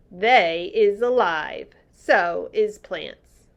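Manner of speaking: slow, solemn giant voice; slow earnest giant. Acted. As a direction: let each word land slowly. BFG giant voice.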